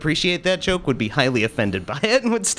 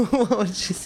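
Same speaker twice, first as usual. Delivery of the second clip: put-on shaky old lady voice; 9 semitones higher than usual. Voicing old Hepburn.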